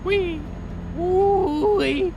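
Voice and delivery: high, excited whoops; gleeful whee. Real, not acted. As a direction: cheer like riding a rollercoaster. Driving fast in game.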